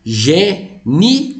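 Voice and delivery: Gênio drawn out, ni and o parted with a rise; split into syllables. Shown as a demonstration. Teacher splitting Gênio like elogio for the class. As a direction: stretch Gênio so i and o separate. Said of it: "vai fazer igual elogio".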